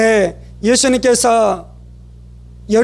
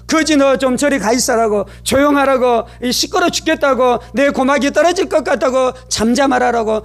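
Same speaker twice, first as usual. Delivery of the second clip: mildly irritated, higher-pitched nagging; scolding; 3 semitones higher than usual. Retold or imitated. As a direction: imitate an annoyed crowd, pitch raised. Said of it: "그에게 이 외치기 시작했습니다".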